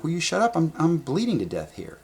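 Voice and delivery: mock outrage while bleeding; angry retort. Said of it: "And I'm like".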